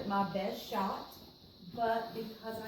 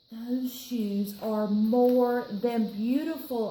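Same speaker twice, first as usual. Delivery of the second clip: slow, louder, savoring every word; a girl swooning over shoes; dreamy delight; 7 dB louder, slower than usual. Acted. Nancy gushing over shoes in a shop window, slowly. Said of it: "I say".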